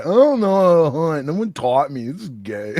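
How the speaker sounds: whiny nerd voice; nerdy vampire. Retold or imitated. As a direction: mope like an awkward nerd. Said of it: "some nerdy vampire guy just being like".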